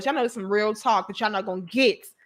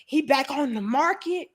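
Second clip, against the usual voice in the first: church lady. Retold or imitated. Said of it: "females just like".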